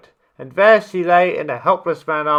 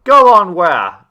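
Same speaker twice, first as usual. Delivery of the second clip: puzzled; 3 semitones higher, 9 dB louder than usual. A narrator's reading. Tiger puzzled by lion.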